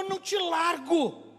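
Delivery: high, insistent refusal; defiant refusal. Acted. Jacob telling the angel no, defiant refusal. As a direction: say it like one who will never let go.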